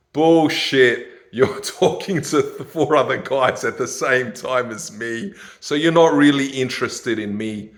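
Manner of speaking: loud, scornful retort; calling bullshit. Real, not acted. Calling out an Instagram woman's excuse, loud. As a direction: snap back at her excuse.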